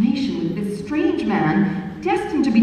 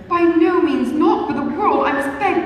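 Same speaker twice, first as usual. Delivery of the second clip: higher, louder urgent protest; eager protest; 9 semitones higher, 4 dB louder than usual. A narrator's reading. Young lady stopping the dance, eagerly calling out louder. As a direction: cut him off, begging. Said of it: "eagerly called out".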